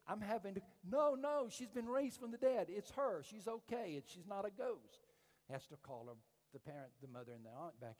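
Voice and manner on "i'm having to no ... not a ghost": high, urgent shout, easing in volume; urgent calling out. Retold or imitated. Preacher acts out his friend calling back frightened relatives, urgent shout. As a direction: call after fleeing people to reassure them, high-pitched. Calling after screaming, fleeing women.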